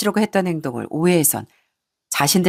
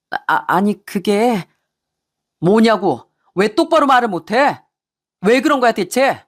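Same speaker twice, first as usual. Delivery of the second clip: angry husband; 3 semitones higher, slower than usual. Acted. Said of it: "화를 내는 아들을 말리며".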